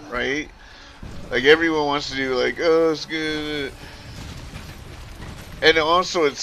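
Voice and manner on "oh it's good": slow, lightly imitated Scottish accent; mock Scottish brogue. Player copying the accent everyone wants, mock Scottish brogue. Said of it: "provide a Scottish brogue".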